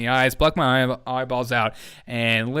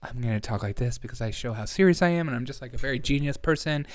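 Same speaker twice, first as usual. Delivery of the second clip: a hint of a self-important expert, softer; mock serious pundit; 6 dB quieter than usual. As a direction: lightly parody someone acting very serious. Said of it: "Or they".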